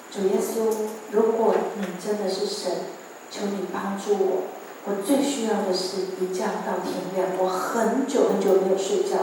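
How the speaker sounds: softly praying; a hushed, humble plea; quiet prayer. Retold or imitated. Alone at home praying to Jesus, soft humble plea. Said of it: "我跟上帝说".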